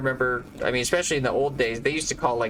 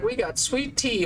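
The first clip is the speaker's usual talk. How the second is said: mock waiter; 9 semitones higher than usual. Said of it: "every time it's like".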